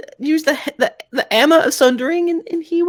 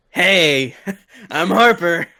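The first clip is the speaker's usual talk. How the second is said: lower-pitched dad voice; impression of his father; 9 semitones lower, much slower than usual. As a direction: drop low and play the dad. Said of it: "do an excellent impression of your father".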